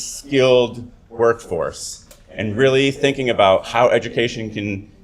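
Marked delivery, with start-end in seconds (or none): 0.0-2.1 "skilled workforce" set apart, slow and deliberate; slow right down on "skilled workforce" to underline it; stress on skilled workforce. Real, not acted. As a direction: give "skilled workforce" slow, measured emphasis. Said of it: "let me emphasize the words".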